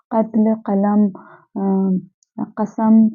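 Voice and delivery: कत्ल, कलम, कसम each begun with uvular q; q from the throat. Shown as a demonstration. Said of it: "हलक से पढ़ना है".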